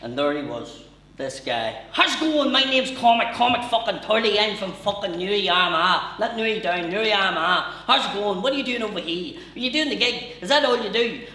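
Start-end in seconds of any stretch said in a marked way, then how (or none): 1.9-11.3 put-on high, loud, rapid-fire Newry accent; pushy over-eager introduction, pelting out questions; manic Newry man. Newry man cornering a comic in a London bar, manic and loud. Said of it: "the maddest experience with somebody from Newry".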